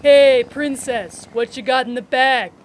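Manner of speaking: leer it out like a catcaller. Acted. Catcaller voice greeting S0.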